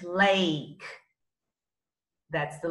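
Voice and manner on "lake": lake said clearly for the class to repeat; model word for repeating. Shown as a demonstration. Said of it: "Let's repeat".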